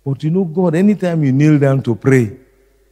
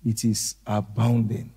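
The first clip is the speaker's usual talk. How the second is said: hushed repeat; 4 semitones lower, 8 dB quieter than usual. Shown as a demonstration. Repeats it much softer.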